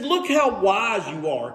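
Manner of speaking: mock compliment; lightly sarcastic admiration. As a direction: praise them with obvious sarcasm. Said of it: "Can you hear the sarcasm?".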